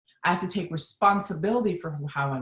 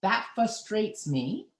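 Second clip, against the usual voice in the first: calmly naming feeling; 3 semitones higher, 3 dB quieter than usual. Shown as a demonstration. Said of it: "I might say".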